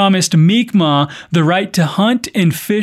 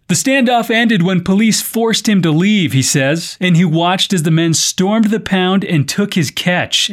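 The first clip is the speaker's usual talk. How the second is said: measured podcast news delivery; news script read with clear phrasing. Acted. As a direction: read it out as a news story, evenly projected. Reads the news story.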